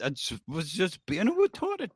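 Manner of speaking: "retarded" with W in place of R; R's said as W. Acted. Comedian defends the bit, "retarded" with R turned to W. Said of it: "I have trouble with my R's".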